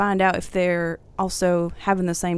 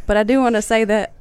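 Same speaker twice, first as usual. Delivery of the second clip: laughing while trying to talk; holding back a laugh; stifled giggles; 4 dB louder, faster than usual. Real, not acted. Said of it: "They're laughing".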